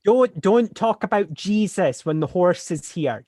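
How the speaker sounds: loud, slow shout to the priest; slow shout of warning to the priest. Acted. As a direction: call it out to him from afar. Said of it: "I'm shouting this to him".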